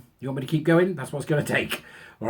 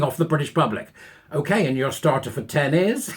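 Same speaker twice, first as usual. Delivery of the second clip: mock quizmaster; 3 dB louder than usual. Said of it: "worst University Challenge team ever".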